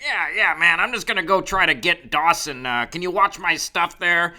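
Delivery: laid-back dude. Retold or imitated. Man asking a stranger to watch his stuff, laid-back dude. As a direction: imitate a laid-back guy asking a favor. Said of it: "he kinda talks like this".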